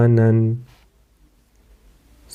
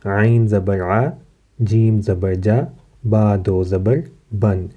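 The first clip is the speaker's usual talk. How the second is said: slow syllable-by-syllable spelling; slower than usual. Shown as a demonstration. Teacher spelling for children, slow and clear. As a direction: spell each letter and vowel deliberately. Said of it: "ہجے کے ساتھ کیسے پڑھیں گے".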